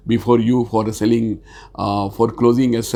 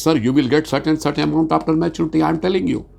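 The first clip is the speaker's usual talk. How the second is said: brisk, higher-pitched assurance to a customer; confident sales answer; full of confidence; 6 semitones higher, faster than usual. Shown as a demonstration. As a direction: state it firmly and quickly, no hesitation. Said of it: "My voice should be full of confidence".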